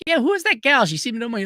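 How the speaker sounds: puzzled. Retold or imitated.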